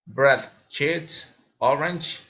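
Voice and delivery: "bread", "cheese", "orange" each lifted slightly; rising list intonation. Shown as a demonstration. Learner demonstrating enumeration, rising intonation. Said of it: "raising intonation".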